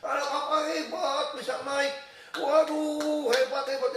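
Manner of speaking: high, loud, stretched-out cheering; retold cheering shout. Dutch father to son up the tower, shouted praise. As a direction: call admiring praise up high. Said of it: "Dia teriak-teriak gitu".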